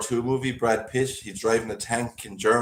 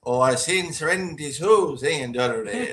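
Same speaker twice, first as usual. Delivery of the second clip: lightly mimicked teasing caller, pitch raised; mock troll's chatter; 4 semitones higher, 3 dB louder than usual. Co-host mimics the troll in the chat, mocking imitation. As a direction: imitate how he goes on, lilting up. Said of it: "That's the way he goes on".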